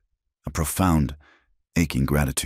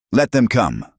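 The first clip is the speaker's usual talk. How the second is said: roar; 7 semitones higher than usual. A narrator's reading. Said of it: "Silas roared".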